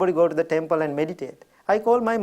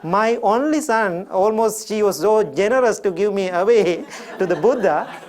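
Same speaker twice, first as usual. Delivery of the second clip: chuckling as he speaks; amused laugh through a retold quote; laughing through words; 3 semitones higher than usual. Real, not acted. Laughing while retelling mother's words.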